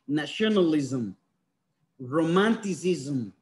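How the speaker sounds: "romanticism" said slowly, ending "ism" drawn out clearly; slow model word. Shown as a demonstration. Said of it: "Please pay attention to the words".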